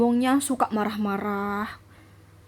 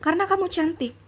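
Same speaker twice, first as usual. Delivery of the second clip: imitating husband; 3 semitones higher than usual. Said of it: "kata dia kayak gitu".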